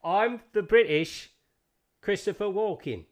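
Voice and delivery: put-on high British accent, halting; Christopher Walken. Host naming the odd impression, high halting British voice. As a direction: pause mid-phrase for no reason. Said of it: "I put pauses in my lines".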